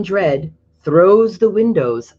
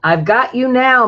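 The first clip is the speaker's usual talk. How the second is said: higher, louder mock roar; farmer roaring; 8 semitones higher, 5 dB louder than usual. Farmer McCloskey roaring at the fox, mock roar. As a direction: bellow it as the angry farmer. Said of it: "McCloskey roars".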